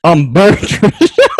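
high, loud, slow put-on woman voice; slow drawn-out Patricia character. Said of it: "I'll bring out my Patricia".

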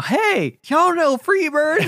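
put-on high, loud, slow drunk holler at the band; hammed-up drunk calling out a request; drunk dad heckling. Drunk dad yells a song request at the band, high and slow.

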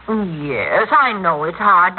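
normal talking voice

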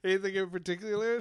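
lightly voiced lizard NPC, curious; lizard man voice.

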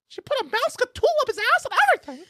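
laughing hard while talking; cracking up mid sentence. Real, not acted. Laughing through funny story.

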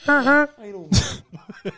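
high, slow froggy Kermit voice. Pretend. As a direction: stretch it out like Kermit the Frog. Kermit voice attempt on reaction stream.

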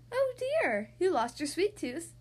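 high, sympathetic mother; lightly voiced worried mom; concerned mom voice. Mommy voiced in story.

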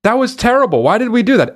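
high-pitched mock dismay; imitated appalled crowd. Dancers judging the song they moved to, mock dismay. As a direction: act out instant regret, incredulous.

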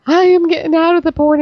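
high quoted stripper voice; stripper quote. Retold or imitated. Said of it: "the stripper goes".

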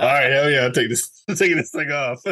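laughing through a delighted yes; laughing while quoting. Retold or imitated. Retelling his reply to the Uber driver, laughing. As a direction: chuckle the words out, tickled by the offer.

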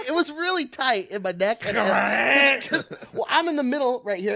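high, giggly explanation; sheepish laughing excuse; laughing through it. Real, not acted. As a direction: talk while cracking up. Guest explains while laughing.

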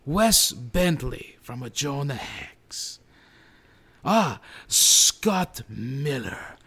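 lightly voiced guest presenter with halting announcements; a hint of a ceremonial guest-host voice; award presenter. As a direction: present the nominees as a slightly put-on celebrity guest.

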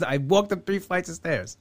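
slow, drawn-out fed-up explanation; weary explanation. Retold or imitated. To the therapist yet again, slow weary fed-up explanation. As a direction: drag it out like you've said it a hundred times. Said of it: "I'm like".

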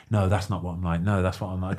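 softly spoken, understated protest; really quiet, nice. Retold or imitated. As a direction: imitate a quiet, polite man. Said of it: "he'd be really quiet".

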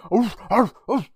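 high yappy little dog; yappy chihuahua voice. Retold or imitated. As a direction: yap like a tiny dog. Dog keeps yapping.

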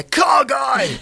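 high, loud shout from across the bar; imitated distant call. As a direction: call out like the loud guy spotting a pal. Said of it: "from the other end of the bar I hear".

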